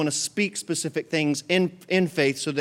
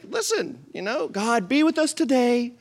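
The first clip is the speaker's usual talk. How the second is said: lazy prayer; 8 semitones higher than usual. Retold or imitated. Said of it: "he's like".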